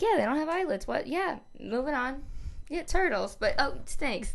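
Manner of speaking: imitating the funny kid she worked with; chatty kid voice. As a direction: rattle it off like a chatty little boy. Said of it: "the way he said things".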